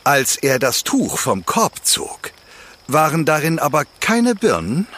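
calm storyteller reading a fairy tale; fireside storytelling. A narrator's reading. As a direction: tell it like a campfire tale. Campfire fairy tale narration.

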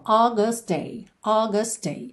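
"August day" with t and d merged; linked t-d. Shown as a demonstration. Teacher shows the merged consonant to students. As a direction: run the t of "August" into "day" as one sound. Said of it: "a gente junta num som só".

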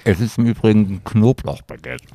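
talking while eating; words round a bite of baguette; mouth full. Real, not acted. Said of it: "Jetzt beißt er schon wieder in dieses Kräuterbaguette".

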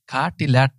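"Kartilert" ending on a T, no U; original Indian pronunciation. Shown as a demonstration. Co-host explains his Indian surname, original pronunciation of "Kartilert". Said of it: "da schreibt man das am Ende mit T H".

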